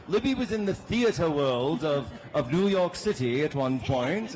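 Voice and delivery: put-on light mid-Atlantic accent, old Hollywood style; a hint of a mid-Atlantic accent. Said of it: "I'm using my mid-Atlantic accent".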